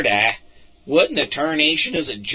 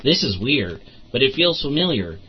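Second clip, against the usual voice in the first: usual speaking voice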